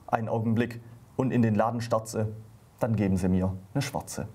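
lively comic poem reading with the quoted voices acted out; comic ballad read aloud for radio listeners; poem recitation. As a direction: recite it like a little stage piece, playing the wife's lines. Reads the poem Der Blusenkauf aloud.

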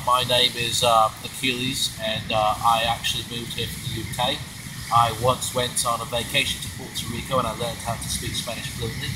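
in-character introduction. Acted. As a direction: introduce yourself in a put-on British character. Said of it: "who are you?".

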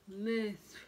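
"List" tried again with a retainer in; wearing a retainer. Shown as a demonstration. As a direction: say "List" carefully through a retainer. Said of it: "I have my retainers in".

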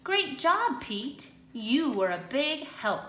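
Easter Bunny praise. Acted. Easter Bunny praising Pete, high cheerful voice. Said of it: "said the Easter Bunny".

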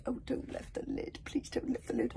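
soft, high pleading; frightened plea. Acted. Fishlegs begs the chiefs not to lift the lid. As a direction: beg them, close to tears. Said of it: "practically crying".

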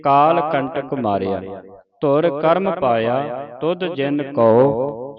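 slow, measured Gurbani recitation; deliberate teaching recitation of sacred verse; scripture recitation. Shown as a demonstration. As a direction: recite slowly, drawing out line endings.

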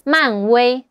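威 in 漫威 held on a level first tone; flat first tone. Shown as a demonstration. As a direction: say 漫威 with 威 flat, neither rising nor falling. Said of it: "The first tone, the flat tone".

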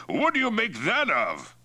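high, strained choking question; choked. A narrator's reading. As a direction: force the question out after strong liquor. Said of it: "he choked".

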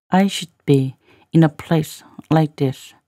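slow phrase-by-phrase reading; slow, in chunks. Shown as a demonstration. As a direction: leave clear gaps so learners can follow. Teacher repeats line in slow chunks.

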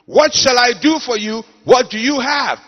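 two questions called out loud; emphatic sermon voice; loud preaching. Shown as a demonstration. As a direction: boom both questions at the crowd. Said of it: "She didn't".

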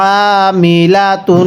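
আমিলাতুন with the n hummed through the nose; nasal ghunnah. Shown as a demonstration. Teacher shows the nasal ghunnah, slowly. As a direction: hold the nasal hum on the nun of আমিলাতুন. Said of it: "নাকের বাসি দ্বারা গুন্নাহ করব".

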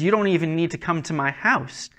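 acted centurion calling out to Christ. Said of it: "The centurion calls out to Christ".

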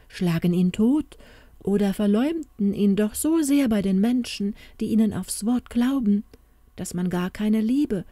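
leicht gespielte Märchenfigur, gekränkt; wehmütig klagendes Märchen. Acted. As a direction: mit einem Hauch von Klage sprechen. Märchen complains to the queen. (leise angedeutete Klage einer gekränkten Tochter)

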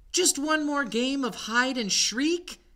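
put-on high, loud little-child voice; pleading baby mummy. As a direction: beg like a small child. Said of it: "he pleaded".

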